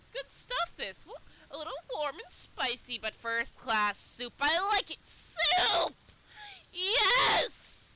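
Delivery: high, loud rapture over soup; excited hare voice. Acted. Dottie praising the soup to Ruff, ecstatic. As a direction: cry out in delight at the food.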